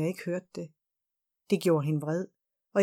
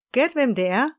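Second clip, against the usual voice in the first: higher and louder, playful guessing game; Linda's loud voice; 5 semitones higher, 5 dB louder than usual. A narrator's reading. Old colleague surprises Maja at the platform, loud and playful. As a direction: call it out cheerfully from behind her. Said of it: "lød Lindas høje stemme".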